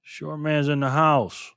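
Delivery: slow, drawn-out hype-man announcement; emcee announcement. Real, not acted. Streamer welcoming a viewer onto the map, slow emcee announcement.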